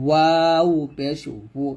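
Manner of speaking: slow, drawn-out ওয়াও, lips rounded; sound from the lips. Shown as a demonstration. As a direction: bring ওউ forward from rounded lips. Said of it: "ওয়াও উচ্চারণটা ঠোঁট থেকে নিয়ে আসতে হবে". (ঠোঁট থেকে টেনে ওয়াও উচ্চারণ)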